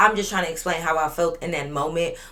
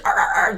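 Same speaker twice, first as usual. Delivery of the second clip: imitated barking; 2 semitones higher, 4 dB louder than usual. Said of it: "just barking".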